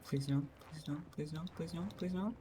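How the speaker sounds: anguished denial. Real, not acted. Pleading while in danger.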